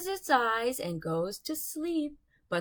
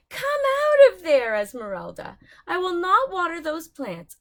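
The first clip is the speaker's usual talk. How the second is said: higher, louder scolding call; 7 semitones higher, 7 dB louder than usual. Acted. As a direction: shout the cat away from the vines. Ordering cat away from pumpkins.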